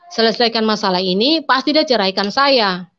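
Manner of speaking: ordinary talk, nothing marked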